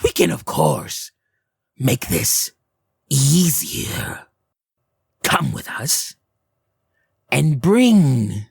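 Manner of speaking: lightly voiced hag, coaxing; tempting hag. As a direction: lure them in sweetly.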